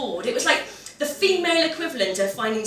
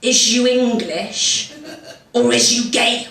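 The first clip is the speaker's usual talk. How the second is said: blunt local bloke; 3 dB louder, much slower than usual. Retold or imitated. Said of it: "just goes".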